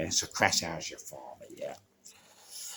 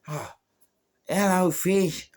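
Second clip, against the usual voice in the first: high, slow, drawn-out surprised hello; surprised greeting; 12 semitones higher, 5 dB louder, slower than usual. Retold or imitated. In his story, greets his mate in drawn-out high surprise. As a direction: stretch the hello, high and amazed.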